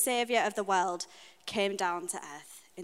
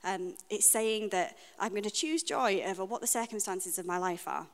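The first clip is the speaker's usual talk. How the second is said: imitating her breezy past self; glib stock answer. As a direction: rattle off the pat Christian answer lightly. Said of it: "I would have said".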